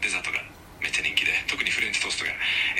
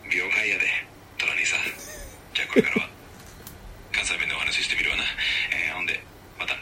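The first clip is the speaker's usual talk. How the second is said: lightly attempted Kansai dialect. Shown as a demonstration. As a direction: try Kansai dialect in an assistant's polite voice. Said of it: "ちょっと関西弁で喋ってみる？". (ぎこちない関西弁)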